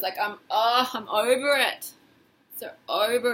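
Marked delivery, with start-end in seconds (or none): 0.2-1.9 slumped, fed up sigh; defeated. Shown as a demonstration. Coach showing a slumped fed-up over it. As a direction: say it like you've given up. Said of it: "say it like that, slump your shoulders".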